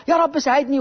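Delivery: imitated tearful prayer; mock tearful plea. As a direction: beg for help like a desperate mother, lightly acted. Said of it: "عمالة تبكي وتقول".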